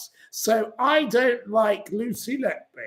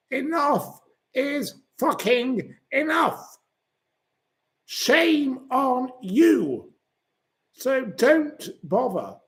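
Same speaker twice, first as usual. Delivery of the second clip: higher, slow, shouted scolding; angry outburst; 5 semitones higher, slower than usual. Real, not acted. Host rants at commenters, slow angry shout. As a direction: lay into them, dragging the words.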